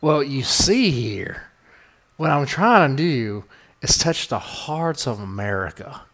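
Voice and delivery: lightly put-on Southern drawl, slow at the start; half-hearted fake Southern charm to soothe America; mock Southern drawl. Podcast host trying a comforting Southern voice, lightly faked drawl. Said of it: "I need to have the voice that can get right in there".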